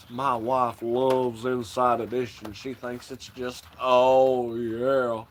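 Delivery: a hint of the preacher, half under the breath; Kenneth Copeland impression. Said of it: "Did this fucking video on him".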